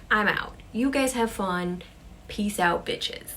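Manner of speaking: fed-up parting shot; acted walk-out, loud then dropping away at the end; completely done. Sarah walking out on her friends, completely done. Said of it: "She is completely done".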